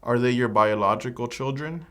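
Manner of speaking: ordinary delivery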